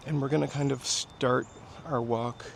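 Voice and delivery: winded from walking uphill; slightly breathless after a climb; out of breath. Real, not acted. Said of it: "I'm catching my breath from that hill".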